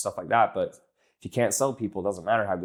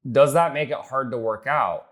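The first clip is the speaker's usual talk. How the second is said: "hard to work out" as one slow, higher-pitched run; wrong pitch delivery; 4 semitones higher, 4 dB louder than usual. Shown as a demonstration. Coach demos the transition question to a client, raised deliberate delivery. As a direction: ask "Does that make it hard" in a raised, deliberate flow. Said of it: "Now, I don't say it like that".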